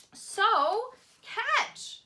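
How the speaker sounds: high, loud call. A narrator's reading. Once-ler calls out to the boy, high and loud. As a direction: call out to the child. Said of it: "calls the Once-ler".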